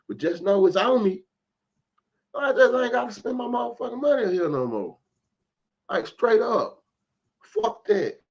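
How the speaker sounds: retold heated yelling at the store; heated shout. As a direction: let it rip, done with this store. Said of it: "I'm like".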